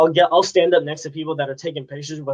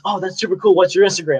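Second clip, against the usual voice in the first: lightly voiced cop, raised pitch; impressed cop; 5 semitones higher than usual. Kid retelling cop wanting his Instagram, lightly imitating an impressed cop. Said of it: "He goes".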